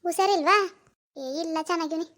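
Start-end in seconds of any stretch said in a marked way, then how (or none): 1.2-2.1 softer, mildly glum denial; dull, downcast. Acted. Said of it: "ಒಂದು ಸಪ್ಪಗೆ ಮಾತಾಡ್ತಿದ್ಯಲ್ಲ".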